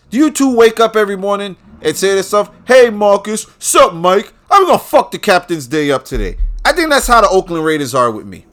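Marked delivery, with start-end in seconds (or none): 0.1-6.4 loud, raised-pitch movie quote; imitating exasperated movie line. Fan quoting Bad Boys to mock his team, exasperated. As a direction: act out the exasperated complaint, high and loud. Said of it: "what they said in Bad Boys".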